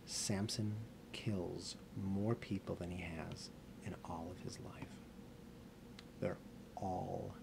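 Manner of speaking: slow, hushed storytelling with long pauses; grave, quiet aftermath; solemn narration. A narrator's reading. Solemn telling of the deaths.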